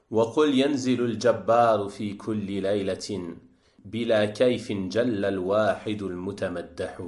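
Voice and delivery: metrical, steady verse delivery; Arabic poem recitation. Acted. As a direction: recite the verses in an even, flowing cadence.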